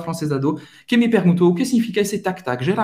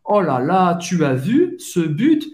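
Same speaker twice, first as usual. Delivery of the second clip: excited fan, rising on "but"; 2 semitones higher than usual. Shown as a demonstration. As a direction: exclaim over a great goal. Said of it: "você mais se empolga". (empolgado, como torcedor)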